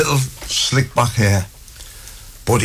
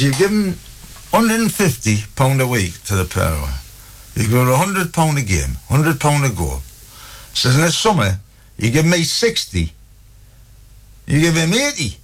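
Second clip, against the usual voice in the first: higher-pitched aggrieved protest; indignant complaint; 3 semitones higher than usual. Acted. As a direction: argue your case, mildly outraged. Retold complaint about unequal pay.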